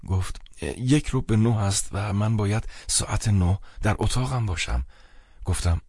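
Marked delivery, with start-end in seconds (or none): 0.8-4.9 slightly higher voice for the friend, explaining; a hint of a worried, apologetic friend; lightly voiced anxious friend.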